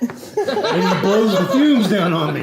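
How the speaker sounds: laughing through the words; can't help cracking up telling it; giggling through the line. Real, not acted. Laughing while telling father's torture.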